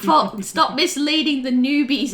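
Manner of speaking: mock scold him, loud and high; exasperated yell. Calling out Dave.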